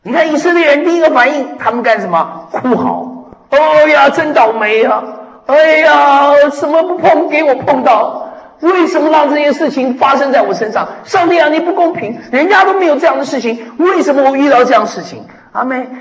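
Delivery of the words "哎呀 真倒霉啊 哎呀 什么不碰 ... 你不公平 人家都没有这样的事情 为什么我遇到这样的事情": higher, whiny moaning about bad luck; mock wailing complaint. Preacher mimics wailing Israelites, whiny and higher. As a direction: act out a self-pitying complainer crying to God.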